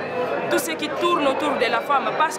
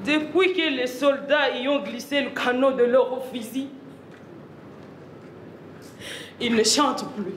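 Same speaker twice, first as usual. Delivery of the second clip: grave theatrical monologue. Acted. Suite grave du monologue de guerre. (monologue grave, voix basse et posée)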